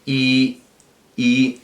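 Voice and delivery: "I" sounded alone as a long steady vowel; drawn-out vowel I. Shown as a demonstration. Teacher showing students how lips close, demonstrating a long I. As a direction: hold a long, clear "I". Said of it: "Yo digo".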